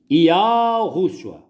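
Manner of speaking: Ialro said high, rising; name sequence. Shown as a demonstration. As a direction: lift Ialro up in pitch. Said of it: "Não há outra pronúncia".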